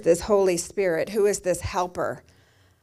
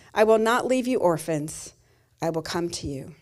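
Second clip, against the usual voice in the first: scripture reading. Acted. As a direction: read the verses like a preacher from the pulpit. Reads scripture aloud.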